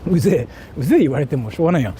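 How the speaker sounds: overacted anime dub hero; fast, brash anime protagonist; anime guy voice. Shown as a demonstration. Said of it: "Typical, like, anime guy voice".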